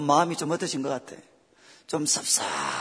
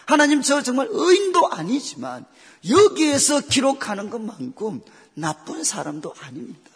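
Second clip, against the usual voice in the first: protesting to God; 4 semitones higher, 5 dB louder than usual. Retold or imitated. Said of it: "그렇게 항변을 했어요".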